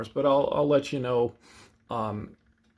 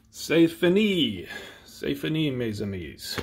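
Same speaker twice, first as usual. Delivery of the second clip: put-on French with a flat Midwestern accent; 3 semitones higher than usual. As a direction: say it like an American from Missouri. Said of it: "I go back to a Midwestern accent".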